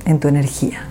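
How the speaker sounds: unhurried meditation guide with long pauses; guided meditation. Acted. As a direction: lead the listener gently through it, phrase by phrase.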